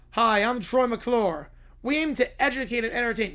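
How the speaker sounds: Troy McClure. Retold or imitated. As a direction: play the cheesy TV host, slowed right down.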